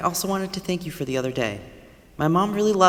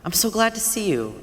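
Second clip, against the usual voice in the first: glad surprise; 7 semitones higher than usual. Acted. Neighbour surprised to see Lily.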